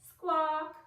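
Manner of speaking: high loud squawk; bird squawk. A narrator's reading. The flamingo Pinky answers, high loud bird squawk.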